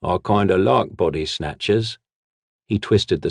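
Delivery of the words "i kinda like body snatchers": drawling. Acted. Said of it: "the brute drawled to himself".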